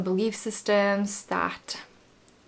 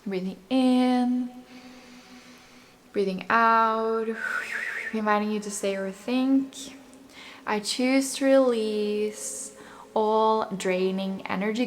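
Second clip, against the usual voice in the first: guided meditation. Acted. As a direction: calmly lead the listener's breathing. Guides affirmations and breathing.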